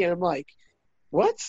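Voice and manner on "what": mock-shocked high "What?"; retold reaction, pitched up on purpose; high-pitched disbelief. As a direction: squeak it out as a startled dad. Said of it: "I got all high pitched there".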